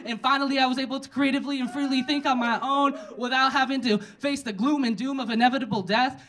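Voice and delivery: frantic rant. Acted. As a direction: rant on without letup, peaking at the end. Escalating comic rant after the chant.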